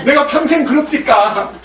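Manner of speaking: high and loud, hurt protest; protesting donkey. Acted. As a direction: plead as the wronged donkey.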